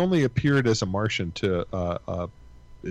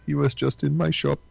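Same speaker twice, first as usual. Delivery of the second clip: higher put-on foreign shopkeeper voice; 4 semitones higher than usual. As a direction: greet like a friendly corner-shop owner. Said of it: "I don't have enough voices anyway".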